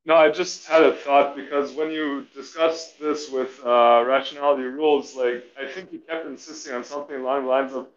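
choppy, crackly headset audio; glitching audio. Real, not acted. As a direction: voice breaking up over a bad mic. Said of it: "Your, your audio is terrible".

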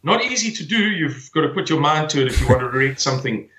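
ordinary talk, nothing marked

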